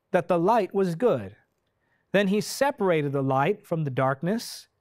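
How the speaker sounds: slow, stately Bible reading with long pauses; dramatic scripture reading. Real, not acted. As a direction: proclaim the creation story phrase by phrase. Reads scripture aloud.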